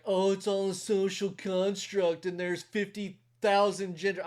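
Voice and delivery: put-on academic know-it-all; mock college intellectual. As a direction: lampoon a preachy college intellectual. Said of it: "intellectual B S college, like".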